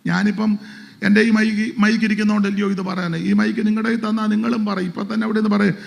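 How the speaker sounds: loud, high fervent sermon delivery; preaching at full force. Acted. Pastor rousing his church, loud fervent preaching. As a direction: proclaim it to the whole congregation.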